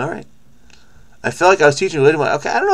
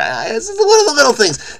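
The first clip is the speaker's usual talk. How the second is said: laughing; 13 semitones higher than usual. Real, not acted. Laughing at his own delight.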